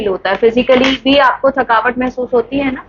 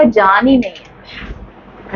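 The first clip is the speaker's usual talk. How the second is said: lifeless voice; 2 semitones lower, much slower than usual. Shown as a demonstration. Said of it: "आपको आपकी body में ऐसा लगेगा".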